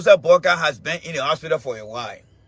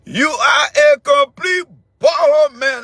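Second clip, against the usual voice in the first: loud, higher mocking insult; mocking shout; 6 semitones higher, 4 dB louder than usual. Real, not acted. Host shouting an insult at caller Kamara, loud mocking shout. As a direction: shout it down at him with scorn.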